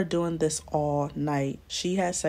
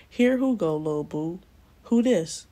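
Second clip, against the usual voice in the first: challenging pimp; 4 dB louder than usual. Retold or imitated. Pimp confronting a stranger outside the motel, challenging. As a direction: voice a pimp butting in, pitched up. Pimp's challenge acted in story.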